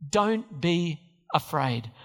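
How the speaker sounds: slow, tender reassurance; gentle Jesus voice. Retold or imitated.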